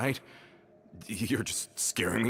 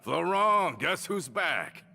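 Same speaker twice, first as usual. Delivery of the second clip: excited call; 11 semitones higher, much slower than usual. Acted. Returning friend calls out greeting.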